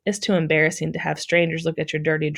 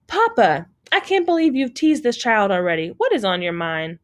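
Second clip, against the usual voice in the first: scolding; 4 semitones higher than usual. Acted. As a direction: tell off your teasing father. Daughter scolds teasing father.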